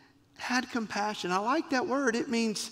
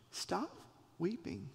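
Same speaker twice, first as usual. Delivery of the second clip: soft slow stop weeping; 9 dB quieter than usual. Retold or imitated. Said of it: "to hear the tone".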